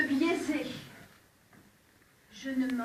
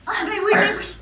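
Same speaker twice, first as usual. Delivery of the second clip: sarcastic; 6 semitones higher, 8 dB louder, faster than usual. Acted. Acted quarrel, sarcastic retort.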